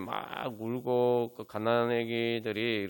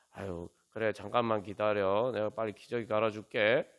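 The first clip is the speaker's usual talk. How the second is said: lightly voiced soothing parent, unhurried; calm a fussing baby, easing off; gentle soothing; 2 semitones lower than usual. Parent promising a crying baby a new diaper, mild soothing. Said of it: "달래주면서".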